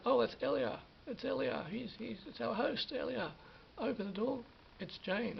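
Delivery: eager cry that the host has come, then deflated; a retold burst of excitement at the door; excited, then caught out. Teller recalls hearing a knock, eager then let down.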